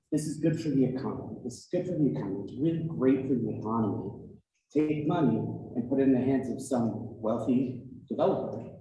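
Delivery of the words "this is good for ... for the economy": rattled off fast, parroting with scorn; mocking repetition. Commenter mocking the legislators' slogan, fast and scornful. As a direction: toss it off quickly like a tired slogan. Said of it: "we keep being told that".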